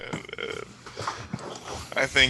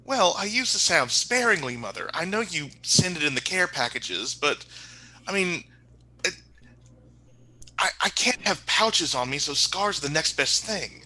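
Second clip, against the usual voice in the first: a touch of a princely son, pitched up; lightly voiced prince; 5 semitones higher than usual. Prince excusing his scars to his mother, lightly put-on higher voice. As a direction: answer as a defensive prince.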